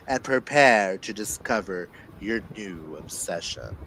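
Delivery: dramatic blurb reading with weighty pauses; dramatic telling. Acted. Reader performing the book synopsis aloud for listeners, dramatic. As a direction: read it like a movie trailer. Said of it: "you can't hear the reader's dramatic telling"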